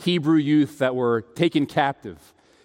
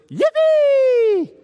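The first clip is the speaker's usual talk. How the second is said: high, loud, drawn-out mock cheer; gleeful whoop; 6 dB louder than usual. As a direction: squeal it out like a sudden imitated outburst. Wife's imitation of his sleep-talk outburst.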